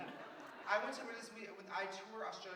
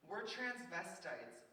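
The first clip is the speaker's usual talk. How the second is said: slow announcement; 2 semitones higher, much slower than usual. Retold or imitated. Tammy leans in and announces.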